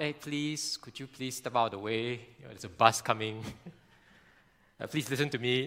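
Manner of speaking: overly polite plea. Pretend. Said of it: "you won't kinda go to the parent".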